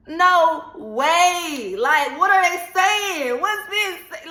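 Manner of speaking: panicked disbelief. Retold or imitated. Panic about mother meeting girlfriend.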